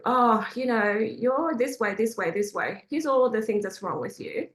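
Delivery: understated mock criticism; nagging demo. Shown as a demonstration. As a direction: hand the nagging back, measured and only lightly acted. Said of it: "Let me do it back to you".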